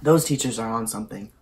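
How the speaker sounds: speaking with taco at lips; words cut by a bite; talking while biting food. Real, not acted. Seen 0: Taco held at lips while speaking; mouth opens to bite at 1.2s.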